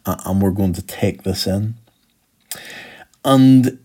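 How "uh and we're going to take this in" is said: resigned restart. Retold or imitated. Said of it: "that's what Jesus is saying here".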